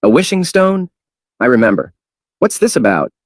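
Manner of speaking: high astonished question. Acted. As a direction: marvel at it aloud. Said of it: "said in astonishment".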